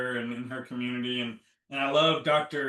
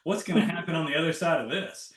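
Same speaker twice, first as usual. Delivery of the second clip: a lively, louder, eager voice; eager excitement; 3 semitones higher, 4 dB louder than usual. Retold or imitated. Retelling how she greets a trigger now, eagerly. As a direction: greet the next trigger like an adventure. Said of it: "now I get excited for".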